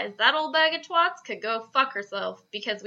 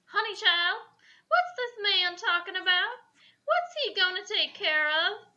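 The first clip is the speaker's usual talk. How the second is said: Texas housewife voice; 5 semitones higher than usual. Acted. Texas housewife banshee talking.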